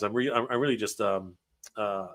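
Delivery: stumbling over words, halting; halting, tongue-tied delivery; tripping over words. Real, not acted. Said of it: "tripping over my words here right now".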